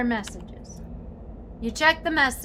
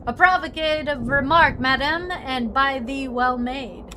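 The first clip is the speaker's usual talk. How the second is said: archaic gentleman; 2 semitones higher, 4 dB louder than usual. Pretend. Character answering madam, in a hammed-up courtly voice. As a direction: play a pompous old-fashioned gent. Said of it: "When did you start talking like this?".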